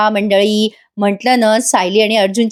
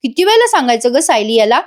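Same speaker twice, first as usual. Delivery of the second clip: a mother-in-law chiding her son with raised pitch; scolding mother-in-law; 5 semitones higher than usual. Acted. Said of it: "कल्पनाताई ओरडतात". (सासूबाईंचा थोडा उंच आवाजातला लटका ओरडा)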